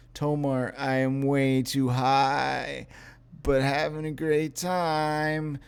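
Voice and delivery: Lenny way too high. Retold or imitated. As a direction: sound blissfully high and drift through the words slowly. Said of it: "That is my impression of Lenny being way too high".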